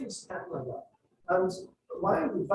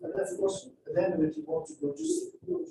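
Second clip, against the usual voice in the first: "go to school" held level on a higher pitch; flat intonation; 8 semitones higher than usual. Shown as a demonstration. Teacher mimicking learners' speech, flat intonation. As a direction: keep "go to school" unvaried, without falls. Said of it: "it's a flat intonation".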